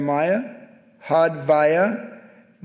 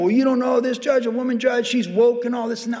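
mimicking worked-up person; 5 semitones higher than usual. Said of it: "they were worked up".

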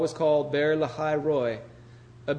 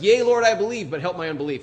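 pleading exclamation; 3 semitones higher, 7 dB louder than usual. Retold or imitated. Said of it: "So he's like".

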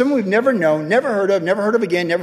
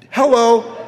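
amused greeting; 4 semitones higher, 3 dB louder than usual. Retold or imitated. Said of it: "I was like".

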